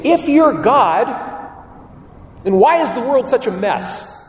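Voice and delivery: high, loud indignant question; demanding believer. Acted. Preacher voicing our indignant complaint to God, high and loud. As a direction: challenge God, fed up. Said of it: "We say".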